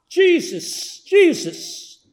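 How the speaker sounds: high, carrying call of a name; crowd member screaming. Retold or imitated. Voice in the crowd crying out to Jesus, high and carrying. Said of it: "someone screamed out".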